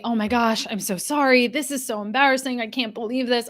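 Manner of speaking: lightly mocked flustered over-apology; playing the embarrassed employee who says sorry too much. A coach acting out the flustered crier she warns against. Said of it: "Do not say".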